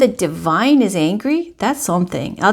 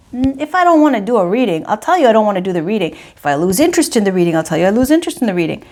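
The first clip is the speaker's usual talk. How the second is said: rattled off fast; much faster than usual. Real, not acted. Rapid-fire self-justification.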